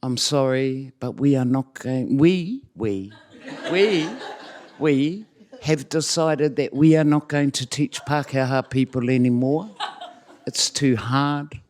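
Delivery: measured, polite retold announcement; diplomatic. Colleague tells the course they are stopping, diplomatically. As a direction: break it to them gently with careful pauses. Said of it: "really diplomatically and quietly said".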